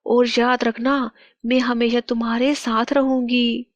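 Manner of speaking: lightly voiced tender farewell to her child; loving mother's spirit. Queen's spirit speaks to her child. (ममता भरी माँ की आवाज़)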